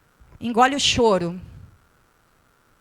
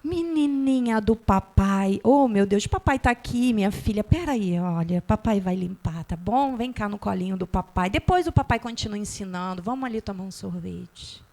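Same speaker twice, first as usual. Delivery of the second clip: doting father. Retold or imitated. Father consoling his fallen little girl, tender. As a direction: coo it like a dad soothing his daughter.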